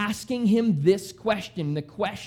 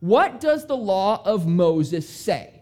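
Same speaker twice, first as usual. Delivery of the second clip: Jesus asking; 5 dB louder, slower than usual. Retold or imitated. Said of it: "Jesus replied".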